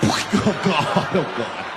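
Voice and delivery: mock wailing despair; acted helpless anguish; distraught victim. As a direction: beg for an explanation, then moan. Humiliated passenger wails while obeying.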